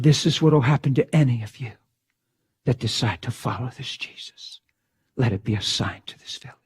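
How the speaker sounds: low, hushed killers' warning sinking to a whisper; menacing threat. Retold or imitated. Preacher retelling the killers' warning, low and hushed. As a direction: voice the executioners low and fading to a hiss. Executioners' threat, retold in sermon.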